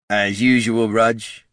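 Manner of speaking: lightly muttered grumble in character; muttering undead. A narrator's reading. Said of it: "muttered Neddard".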